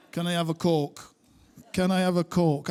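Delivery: ordering a Coke in broad northern Bolton accent; thick Bolton accent. Shown as a demonstration. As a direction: lean into your Bolton accent. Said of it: "trying to order a Diet Coke in London with this accent".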